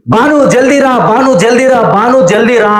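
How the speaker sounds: mock urgent calling; calling out urgently. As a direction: retell an eager call to someone nearby. Calling wife over during the call.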